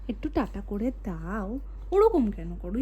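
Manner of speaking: low, slow, mock-gruff voice for একটু tata করে দাও; deep silly voice. Mother coaxing toddler to wave bye, low, slow, mock-gruff voice.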